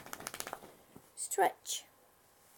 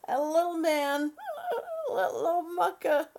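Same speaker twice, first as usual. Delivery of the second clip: laughing; 3 semitones higher than usual. Real, not acted. Laughing while picturing child.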